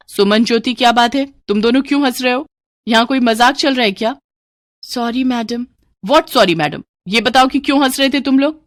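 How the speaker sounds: teacher demanding why they laugh; annoyed teacher. Acted.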